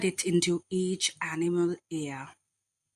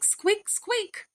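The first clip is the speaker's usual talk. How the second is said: very high mouse voice, two quick squeaks; small mouse; 12 semitones higher than usual. A narrator's reading. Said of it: "the small white mouse said".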